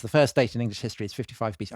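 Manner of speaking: put-on slight New Zealand accent creeping in. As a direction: slip a light New Zealand accent into the quote. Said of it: "I'm starting to do a New Zealand accent there".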